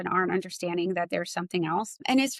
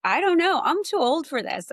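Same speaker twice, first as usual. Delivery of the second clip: laughing it off; 8 semitones higher, 4 dB louder than usual. Retold or imitated. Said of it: "and he's cracking up".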